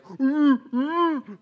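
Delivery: high-pitched closed-mouth "mm"; short high hums, hammed-up; mock muffled moans. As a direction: moan as if gagged. Acted muffled moaning as if gagged.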